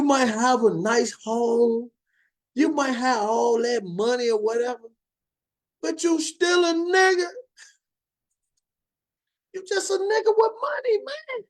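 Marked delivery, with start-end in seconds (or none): 5.8-11.4 heated street sermon; rising heated preach. Real, not acted. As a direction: pitch climbing higher, fired up. Preaching hard truth to brothers.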